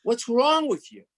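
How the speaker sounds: irritated mock rant; exasperated outburst. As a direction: retell brushing off the caller who interrupts you. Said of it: "And I'm going".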